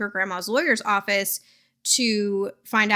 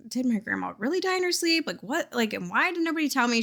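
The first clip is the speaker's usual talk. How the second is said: suspicious; 3 semitones higher, 3 dB quieter, faster than usual. Retold or imitated. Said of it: "Lucy's kind of, like, suspicious".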